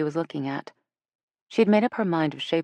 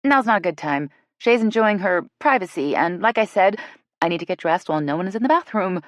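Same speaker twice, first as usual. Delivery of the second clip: quick, nervous, slightly hurried; flustered, rushing the excuse; nervous laugh; 4 semitones higher, 4 dB louder than usual. Acted. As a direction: brush her off with an awkward laugh. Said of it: "Jill said with a nervous laugh".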